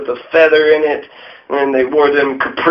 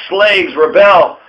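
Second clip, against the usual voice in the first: slow, louder, and higher call "Slaves, rebel"; slow proclamation; 4 semitones higher, 4 dB louder, slower than usual. Retold or imitated. Lord Dunmore calling slaves to revolt, slow loud proclamation. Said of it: "Lord Dunmore said".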